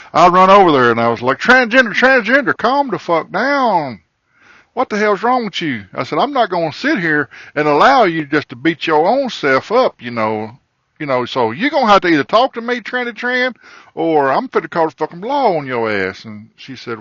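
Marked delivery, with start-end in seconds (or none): 1.4-5.9 high, loud shout of alarm; retold yell. Yelling at the woman hitting herself. 6.2-16.3 retold scolding. Scolding her, threatening the law.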